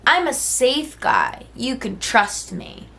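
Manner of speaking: high, mock-reassuring slimy guy; a hammed-up trust-me voice; mocking the safe guy. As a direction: parody his I'm-safe act. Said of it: "Acting like he's safe".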